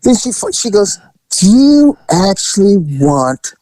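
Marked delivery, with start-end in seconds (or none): 1.3-3.5 drawn-out, slow mock masseuse question; pointed offer. Masseuse offering the teller extras, imitated pointed offer. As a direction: ask it slowly, as an imitated offer.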